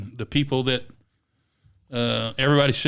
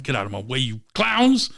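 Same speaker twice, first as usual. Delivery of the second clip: angry. Retold or imitated. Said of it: "I'm so mad".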